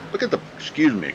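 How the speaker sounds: interrupted by hiccups; talking through the hiccups. Real, not acted. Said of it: "got the hiccups here".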